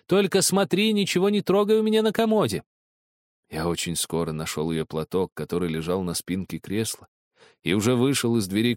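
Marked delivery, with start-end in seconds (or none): 0.1-2.6 put-on high girl's call after him; крикнула вслед. A narrator's reading. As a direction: shout after the boy, sharp and high. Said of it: "она крикнула мне вслед". (громкий окрик вдогонку)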